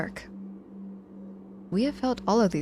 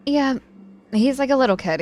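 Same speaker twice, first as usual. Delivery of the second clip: teasing amusement; 7 semitones higher, 9 dB louder than usual. Acted. Teasing about Nico.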